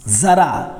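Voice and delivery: जरा said as "zaraa"; nukta z sound. Shown as a demonstration. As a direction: begin जरा on a buzzed z. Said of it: "हमने लिख दिया जरा".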